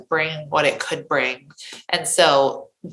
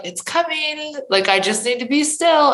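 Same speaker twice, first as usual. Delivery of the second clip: lightly acted trust, pitched well up; relaxed trust; 10 semitones higher than usual. Coach voices a client who waits for business, relaxed and trusting. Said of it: "and relax. And you're like".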